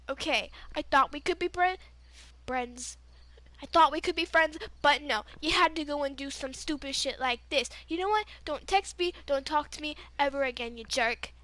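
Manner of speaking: heated but contained telling-off; mildly angry, building then dropping off; retold pissed-off rant. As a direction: re-enact scolding your ex by phone. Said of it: "I am pissed".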